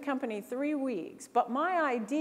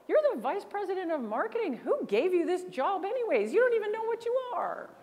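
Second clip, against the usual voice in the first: mock mad; 9 semitones higher than usual. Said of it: "legit mad and says".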